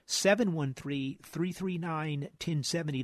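phone number read out slowly; slow, careful phone number; slow dictation. Shown as a demonstration. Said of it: "now's the time to get 'em in".

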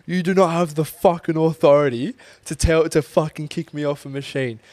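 imitating an enraged lifter telling her off; mock scream. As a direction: retell his outburst as a hammed-up yell. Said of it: "he screamed in her face".

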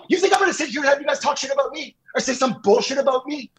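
heated ultimatum. Real, not acted. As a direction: lay down the last strike.

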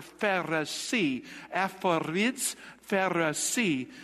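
"Pharisee" and "Aphoriz" slowly, syllable by syllable; "Pharisee" and "Aphoriz" in slow, spaced syllables; sounded-out consonants. Shown as a demonstration. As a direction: draw out "Pharisee", "Aphoriz", "Pharisee" to compare their sounds. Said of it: "shares the same consonants".

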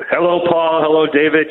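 echoey tiled bathroom sound; talking from a public restroom. Real, not acted. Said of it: "as you can probably hear the echo in here".

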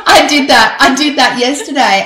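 laughing loudly through the words. Real, not acted. Laughing at saying podcast too often. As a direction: giggle it out, a bit embarrassed. Laughing at her own repetition.

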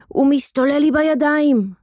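put-on high, alarmed boy's cry; panicked shout. A narrator's reading. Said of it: "צעק הילד השמנמן בבהלה". (צעקה מבוהלת של ילד)

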